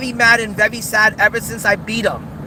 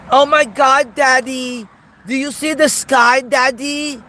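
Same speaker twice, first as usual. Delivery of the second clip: mocking Winter Bear impersonation; 3 semitones higher, slower than usual. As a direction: gush up at the sky like an awed child calling his dad. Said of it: "Let me do the Winter Bear impersonation again".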